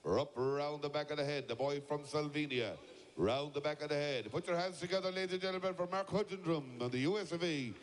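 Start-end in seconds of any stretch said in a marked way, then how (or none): 4.3-7.7 raised pitch, calling out to the crowd; rally the audience for applause. Real, not acted. Announcer calls the shearing crowd to cheer, raised and ringing.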